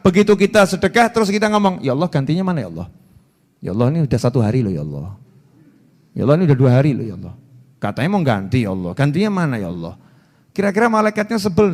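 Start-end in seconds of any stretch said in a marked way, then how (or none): 1.8-10.0 rendah, cepat, merengek; merengek menagih. Retold or imitated. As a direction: tagih terus dengan rewel. Orang menagih ganti sedekah. (orang yang merengek menagih ganti)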